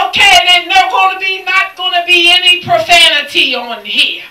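loud, stern order; firm command. Retold or imitated. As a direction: lay down the law like a bus driver. Bus driver laying down rules.

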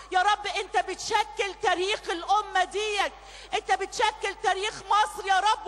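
loud, high, preaching prayer at full force; fervent shouted intercession over music; impassioned prayer. Real, not acted. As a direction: pour it out to God, rising and loud. Prays aloud at full force.

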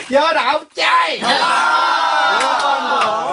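high, loud, slow lisping shout; lisping baby talk. Shown as a demonstration. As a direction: say it like a tongue-tied toddler. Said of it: "아주 혀짧은 소리로".

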